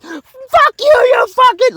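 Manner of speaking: loud, high furious curse; screamed curse. Shown as a demonstration. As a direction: lose it completely. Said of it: "losing your shit".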